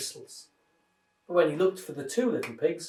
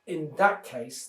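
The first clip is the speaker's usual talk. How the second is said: angry growl; slower than usual. Acted. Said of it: "the wolf growled angrily".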